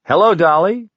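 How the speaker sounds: high, loud, silly outburst; inane exclamation. A narrator's reading. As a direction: blurt it out brightly and pointlessly. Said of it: "Then, inanely, I exclaimed".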